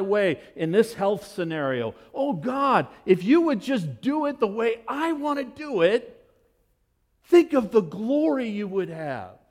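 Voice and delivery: hammed-up self-serving prayer; whiny mock prayer. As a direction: beg God to let you have your way. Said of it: "I'm saying".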